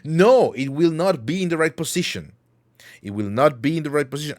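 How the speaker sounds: high, loud mock insistence; mock indignant protest. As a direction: protest the point, hammed-up. Insisting model won't reset right.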